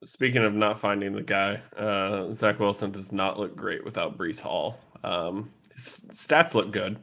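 hoarse, worn-out voice losing its strength. Real, not acted. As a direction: talk through a voice that is going. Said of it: "sorry, I'm losing my voice".

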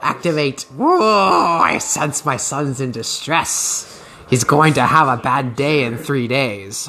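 slow, otherworldly mock trance voice; drawn-out mock psychic revelation; mock psychic mom. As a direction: play the mom as a hammed-up mystic sensing her son. Mom with psychic shroom powers.

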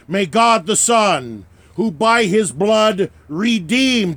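solemn, measured ritual blessing; liturgical blessing. Acted. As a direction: invoke each name of God steadily.

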